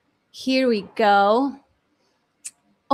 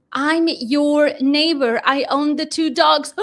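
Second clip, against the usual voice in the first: neighbor's words; 5 dB louder than usual. Retold or imitated. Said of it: "That's my neighbor".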